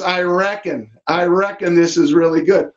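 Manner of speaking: a hint of folksy Southern US accent. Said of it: "I love it with the Southern guys".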